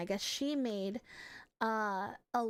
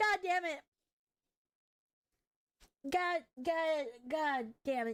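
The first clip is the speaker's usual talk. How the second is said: tearful, crying, pitched-up voice; 7 semitones higher than usual. Answering a chat message about someone missed, crying while talking. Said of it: "I don't mean to cry!".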